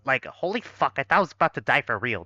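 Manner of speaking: put-on fast, breezy Valley Girl accent; Valley Girl, rushed and casual. Shown as a demonstration. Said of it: "I'm not even doing the Valley Girl voice".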